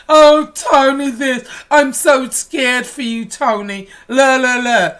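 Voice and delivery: a hammed-up whiny voice that trails into a sing-song la la la; whiny sing-song mockery; mock whining. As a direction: mimic a crybaby, then taunt.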